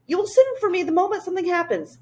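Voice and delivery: high, quick and eager creature voice; a bouncy little creature popping in; high fluttery royal creature; Whangdoodle voice. Acted.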